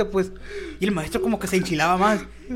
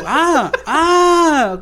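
higher, louder sarcastic ah ah; mocking scoff; 7 semitones higher, 7 dB louder than usual. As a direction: scoff like a teacher catching you out. Teacher turns back, mock scoff.

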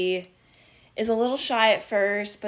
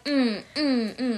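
short imitated "mm" for each pose; posing grunts; 3 semitones higher, slower than usual. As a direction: punctuate each pose with a little "mm". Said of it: "like, posing".

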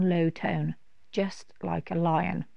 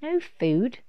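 surprised dragon; 5 semitones higher than usual. Acted. Dragon asks.

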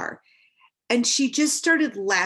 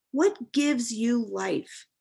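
slowed right down, each word weighed; slow reflective repeat; much slower than usual. Shown as a demonstration. Asking herself slowly, pondering the question. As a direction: ask it again slowly, letting it sink in. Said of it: "these questions came to me".

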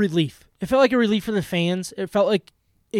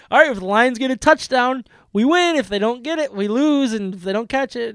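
excited explaining; 6 semitones higher than usual. Real, not acted. Explaining tense final play to kids.

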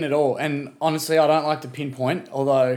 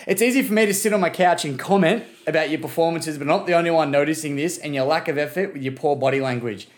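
angry rant; 2 semitones higher than usual. Acted. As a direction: lay into him like a fed-up fan. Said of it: "that's just a little rant I've got for Jack".

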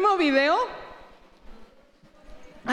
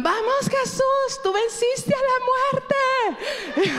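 high, slow, drawn-out cheer; imitating kids yelling; 12 semitones higher, much slower than usual. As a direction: stretch it out like excited kids cheering. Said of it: "Ben y Sammy le gritaban".

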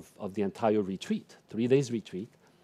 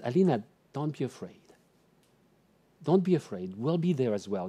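very calm voice; 3 dB quieter than usual. Retold or imitated. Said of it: "in a very calm voice".

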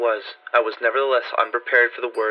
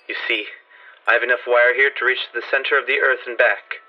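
a hint of Warren, mellow and calm; lightly voiced friend, steady tenor; 2 semitones higher than usual. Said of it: "in his mellow tenor voice".

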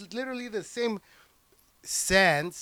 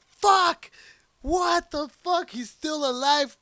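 seeing a villain return in a trailer, shocked cry; shocked outburst; 8 semitones higher, slower than usual. Retold or imitated. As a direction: blurt it out in disbelief. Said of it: "That was my first thought".

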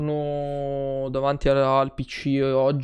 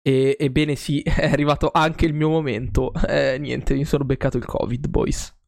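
blocked nose, nasal voice; talking through a stuffy nose. Real, not acted. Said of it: "se mi sentite così intasato, con la voce nasale".

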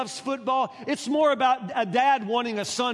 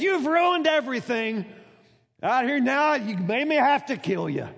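a hint of aggrieved daddy; mild scolding father; 3 semitones higher than usual. Preacher voices Jephthah blaming his daughter, fading mock complaint. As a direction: grumble the blame, winding down. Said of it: "That's what he says".

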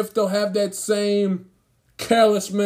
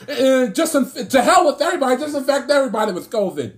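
mock player voice; 2 semitones higher, faster than usual. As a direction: sneer it out like a cocky athlete showing off. Mocking the player's attitude.

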